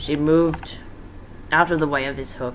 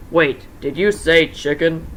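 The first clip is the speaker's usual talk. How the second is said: Chica voice; 5 dB louder, slower than usual. Acted.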